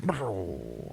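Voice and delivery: soft, trailing burble; imitated underwater groan. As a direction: mimic a stunned man sinking. Imitates hurt man underwater.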